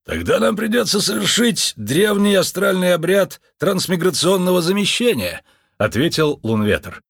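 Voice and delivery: слегка приподнятый голос Лунветра; мистик с важностью объясняет обряд; чудаковатый мистик. A narrator's reading. (Лунветр рассказывает Джо об обряде, торжественно)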